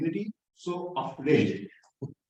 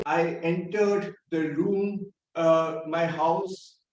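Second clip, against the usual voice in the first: slow and unbothered; nonchalant; 3 semitones lower, slower than usual. Retold or imitated. Boy walks in home hiding his head wound, nonchalant. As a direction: stroll in as if nothing happened. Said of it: "very nonchalantly".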